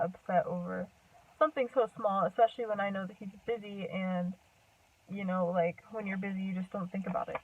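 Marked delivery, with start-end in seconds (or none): 3.9-7.4 winded, talking between breaths. Real, not acted. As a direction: run out of air mid-sentence. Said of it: "I'm out of breath".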